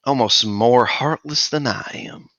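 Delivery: lightly voiced undead lich, menacing; a hint of a creepy skeletal figure; lich speaking. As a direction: undead lich crooning to a favourite. Lich speaks to sleeping player.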